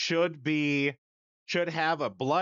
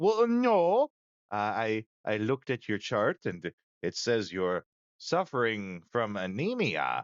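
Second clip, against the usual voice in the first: put-on low, swooping South African accent; 5 semitones lower than usual. Retelling the man in his office reading the speaker's chart: south african accent. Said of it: "he's got like one of those South African accents".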